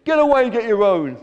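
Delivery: loud, high warning to back off; screech. A narrator's reading. Greedy gannet chasing seagulls away, screeched. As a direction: drive the others off at high volume. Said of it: "he screeched".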